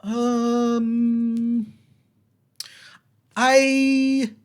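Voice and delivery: put-on high, slow, pleading young man; trapped young man, relieved and lonely. Young man stuck in the well complains to the adventurers, high and slow. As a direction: tell your sad story from the bottom of the well. Same figure continues.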